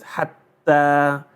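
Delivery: Hatta split as a closed hat, then ta; slow hat-taa; doubled letter. Shown as a demonstration. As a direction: hold the silent t before the voiced ta in Hatta. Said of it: "supposed to be like this".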